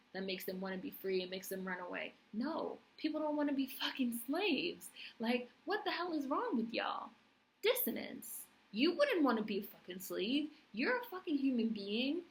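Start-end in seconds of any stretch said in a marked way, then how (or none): 2.3-12.2 higher and louder, fed up; angry rant. Real, not acted. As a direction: lay into them, outraged. Ranting at slave owners.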